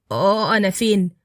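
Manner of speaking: slow, groggy pained waking; waking up hurt and confused. Acted. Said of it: "فتح عيونه بألم". (بألم وهو بيفوق ومش فاهم هو فين)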